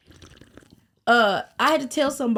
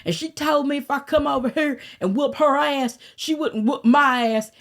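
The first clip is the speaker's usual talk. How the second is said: put-on naive Arkansas girl; 6 semitones higher than usual. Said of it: "retold line at projects".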